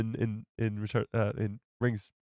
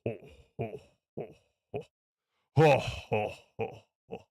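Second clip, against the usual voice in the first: lightly voiced mock foreign accent; 2 semitones lower, slower than usual. Streamer jokes about coming on in another accent, mock voice. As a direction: ham up a silly accented laugh. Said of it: "be like".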